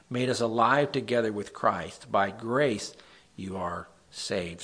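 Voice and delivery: scripture reading. Acted. Pastor reads Psalm fifty-seven to the group, solemn reading. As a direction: read the verse out like a prayer.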